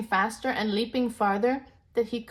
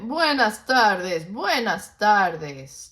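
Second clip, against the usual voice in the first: slow, louder greeting; shouted greeting; 7 dB louder, much slower than usual. Acted. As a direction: call it up to the trees. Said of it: "They shouted".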